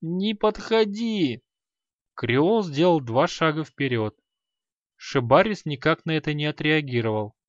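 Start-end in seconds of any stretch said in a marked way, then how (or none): 0.0-1.4 high, slow whimpering plea; babbling in fear. A narrator's reading. Merchant babbles in terror while sinking to floor. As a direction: plead weakly, collapsing. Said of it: "лепетал тот".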